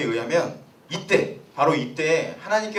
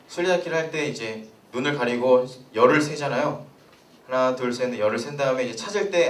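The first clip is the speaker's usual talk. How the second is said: ordinary delivery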